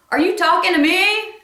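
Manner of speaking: high, loud yelled challenge; yelled back. Retold or imitated. Woman yelling back at her neighbor through the window, loud high challenge. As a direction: shout it through the glass, defiant. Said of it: "yells through the window".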